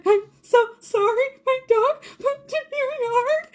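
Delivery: apologizing to the neighbor while crying; sobbing apology. Retold or imitated. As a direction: blubber it to a stranger. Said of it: "and I'm sobbing".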